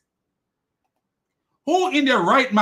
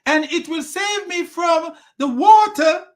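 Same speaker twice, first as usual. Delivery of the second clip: put-on boy's voice; 9 semitones higher, 3 dB louder than usual. Boy refusing his father's boat, high mock voice. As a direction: pitch it way up as a foolish boy. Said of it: "the boy said".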